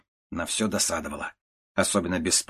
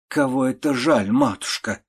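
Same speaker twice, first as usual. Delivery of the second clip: faltering voice; 4 semitones higher, 3 dB louder than usual. A narrator's reading. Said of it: "спросила тётушка прерывающимся голосом".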